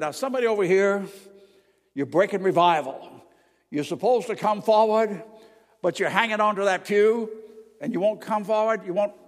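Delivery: loud, pressing preacher's challenge; fiery revival preacher pleading loudly; preacher calling out. Retold or imitated. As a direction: call out the one clinging to the pew.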